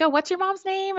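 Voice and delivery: 1 mimicking nurse.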